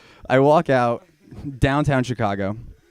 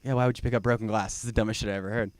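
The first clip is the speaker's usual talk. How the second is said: mocking audience; 6 dB quieter, much faster than usual. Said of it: "you're all going".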